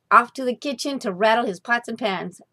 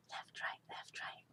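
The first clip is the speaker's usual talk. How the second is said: hushed whispered footsteps; soft unvoiced counting; 25 dB quieter than usual. A narrator's reading. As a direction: breathe it out like tiny marching feet. Mice footsteps heard by cat.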